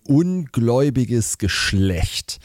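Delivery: slow, drawn-out rebuke; holy exasperation. Acted. Jesus rebuking his disciples, holy exasperation. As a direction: pronounce it slowly, as if fed up. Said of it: "heilig genervt".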